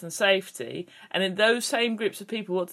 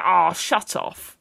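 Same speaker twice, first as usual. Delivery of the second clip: dismissive demo; 7 dB louder, much slower than usual. Shown as a demonstration. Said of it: "like that".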